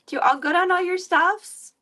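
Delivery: put-on high cooing baby talk; high baby voice for the kitty; baby talk to cat. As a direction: coo at the cat like a toddler.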